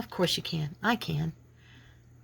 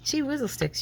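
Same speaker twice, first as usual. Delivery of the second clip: mock exasperation; 8 semitones higher than usual. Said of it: "'cause I'm like".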